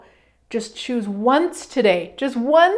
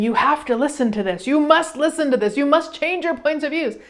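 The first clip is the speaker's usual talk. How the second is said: mildly pushy, higher as the demands pile up; mock insistence; 4 semitones higher than usual. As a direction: press the listener, hitting each demand. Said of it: "gifting somebody this radio show saying".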